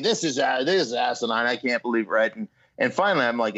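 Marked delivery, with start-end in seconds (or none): 0.0-2.1 lightly parroting his partner's gripe; a hint of echoing him back; mimicking partner. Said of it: "I'm just mimicking it".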